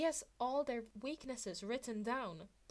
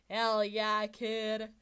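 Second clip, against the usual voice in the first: villain cheer; 9 dB louder, much slower than usual. Acted. Villain voice agrees loudly.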